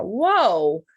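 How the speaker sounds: wide-eyed, loud gasp of wonder; amazed. Retold or imitated. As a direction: act out a sudden realisation. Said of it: "have just been like".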